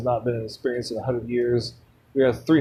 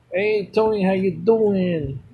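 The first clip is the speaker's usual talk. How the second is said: friendly greeting; 5 semitones higher, slower than usual. Retold or imitated. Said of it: "I didn't say it with an accent".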